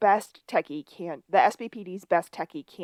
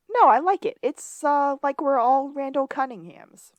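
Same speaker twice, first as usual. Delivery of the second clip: much higher and louder; eager approval; 7 semitones higher, 4 dB louder than usual. Retold or imitated. June backs the new band name, much higher and eager. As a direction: chirp it enthusiastically. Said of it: "June goes".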